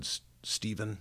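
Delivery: soft imitation of a tearful mother; through tears. Mom answering her son after his outburst, softly tearful. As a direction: gently falter on the name. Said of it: "she, through tears, she said".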